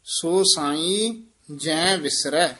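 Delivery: ਜੈ with its nasal dot, slow. Shown as a demonstration. Teacher showing the student a nasal ਜੈ. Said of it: "ਜੈ ਦੇ ਬਿੰਦੀ ਹੈਗੀ ਹੈ".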